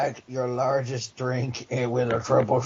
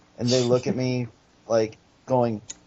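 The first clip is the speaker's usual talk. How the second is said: ordinary talk, nothing marked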